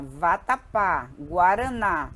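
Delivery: vatapá, guaraná drawn out slowly, landing on the last syllable; stress on final syllable. Shown as a demonstration. Teacher giving oxytone examples, stress on the last syllable of vatapá, guaraná. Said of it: "cuja sílaba tônica é a última".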